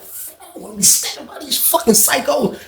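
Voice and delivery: muttered complaint through a laugh. Retold or imitated. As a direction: grumble it softly while laughing. Annoyed aside while waiting, laughing.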